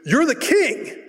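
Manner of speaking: high shrieking panic as the witch; flipping out. Retold or imitated. Witch shrieking at Saul in sudden panic. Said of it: "she flips out".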